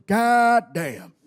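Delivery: loud delighted curse with a laugh. Retold or imitated. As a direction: cheer at the liquor. Stone Cold sees the booze.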